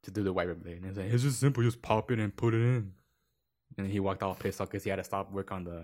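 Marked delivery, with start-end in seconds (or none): 1.1-2.9 mildly raised, annoyed retelling; mock exasperated instruction; mad coworker. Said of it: "that he got mad at".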